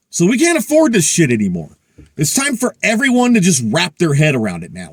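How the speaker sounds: worked-up, emphatic rant. Real, not acted. Prepper ranting to viewers about government spending, worked up. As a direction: punch the key words, indignant and insistent. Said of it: "I'm done with my rant".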